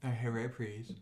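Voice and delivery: put-on caricatured Asian accent; mock Asian accent. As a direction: briefly attempt an Asian accent impression. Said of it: "very hard to do an Asian accent or impersonation".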